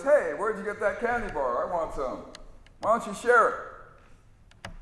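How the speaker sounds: a gullible sidekick begging for a share; lightly voiced dim sidekick asking to share; whiny sidekick. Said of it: "sidekick comes up to him and says".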